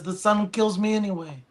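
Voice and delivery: lightly voiced Godfather-like dad accent; impression of dad. Son imitating dad's reply about cigarettes, in an accent. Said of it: "That sounded like The Godfather".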